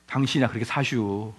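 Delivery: low, soft, grumbling wife's jab; mock wife retort. Wife snapping back at her pastor husband, low and dry. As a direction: mutter it back like a fed-up wife. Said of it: "아내들이 뭐라고 합니까?".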